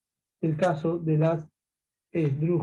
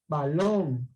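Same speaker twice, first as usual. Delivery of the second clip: balón with the stress on the last syllable, -lón; stress shown; 5 semitones lower than usual. Shown as a demonstration. Teacher showing pupils where balón is stressed, stress shown on -lón. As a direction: lean on the -lón of balón, in a lower pitch. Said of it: "esa mayor fuerza de voz".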